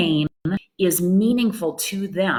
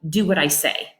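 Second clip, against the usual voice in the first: bossy. Retold or imitated. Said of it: "basically just said".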